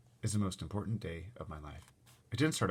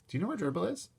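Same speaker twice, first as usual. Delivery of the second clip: calm question; 12 semitones higher than usual. Acted. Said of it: "I asked calmly".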